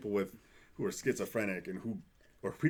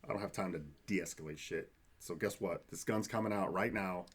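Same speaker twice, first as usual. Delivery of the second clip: mock bad cop; 4 semitones lower, 4 dB quieter than usual. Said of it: "be like".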